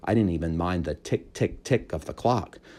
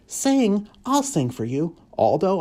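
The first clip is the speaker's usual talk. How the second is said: eager hamster; 13 semitones higher, 4 dB louder, slower than usual. A narrator's reading. Humphrey thinks.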